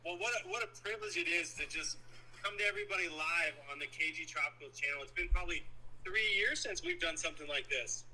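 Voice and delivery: caller over a phone speaker. Real, not acted. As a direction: voice through a speakerphone. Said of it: "let me put you on speaker".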